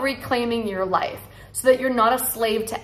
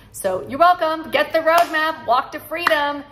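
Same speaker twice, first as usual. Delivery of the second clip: upbeat pitch; 5 semitones higher than usual. Real, not acted. Upbeat sign-off call to action.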